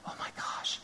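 hushed, breathy whisper of dread. Acted. Preacher whispers to the congregation about confessing. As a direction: drop to a whisper as if sharing a secret.

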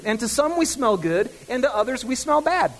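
ordinary delivery

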